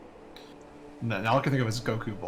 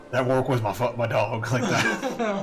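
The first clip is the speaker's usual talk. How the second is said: louder mock voice, laughing; quoted line; 6 dB louder than usual. Quoting a funny story in a put-on voice. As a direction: ham it up with a laugh. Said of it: "stupid story is so funny".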